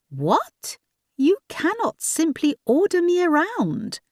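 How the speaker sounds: indignant French protest. A narrator's reading. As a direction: push back at being ordered. Clemence indignant.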